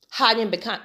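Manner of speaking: real laugh cutting off the sentence; breaking into laughter. Real, not acted. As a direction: lose it laughing mid-sentence at a sudden memory. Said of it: "I'm laughing 'cause I just had a flashback".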